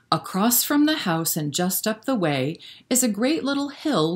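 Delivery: sing-song rhyming storybook read; lilting bedtime-story narration; reading to children. A narrator's reading. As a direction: read the rhyme aloud to little kids. Reads a rhyming picture book.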